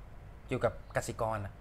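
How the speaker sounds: low, slow, soft phone voice; lightly voiced partner revealing news; business partner calling. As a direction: draw out the news quietly. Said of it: "หุ้นส่วนกูโทรมาบอก".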